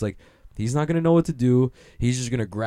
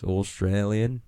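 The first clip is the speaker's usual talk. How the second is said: Australian accent; slower than usual. Shown as a demonstration. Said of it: "I already got Australian down".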